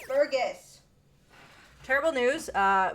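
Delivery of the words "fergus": real scolding call, louder; yelling at cat. Real, not acted. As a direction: call out sharply to a misbehaving cat. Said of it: "me just yelling at a cat".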